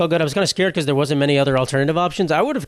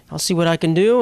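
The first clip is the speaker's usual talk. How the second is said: lightly imitated Southern woman; a hint of a Southern lady's accent; 2 semitones higher than usual. Helpful rep to a caller, lightly Southern lady. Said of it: "Southern black lady, I believe, if I had to stereotype her".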